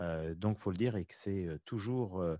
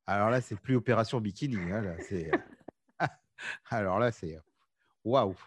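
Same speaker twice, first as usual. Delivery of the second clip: louder, marvelling at training every day; amazed exclamation; 5 dB louder than usual. Real, not acted. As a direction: gasp at the idea of daily workouts. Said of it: "j'aimerais bien avoir cette motivation". (émerveillée, plus fort)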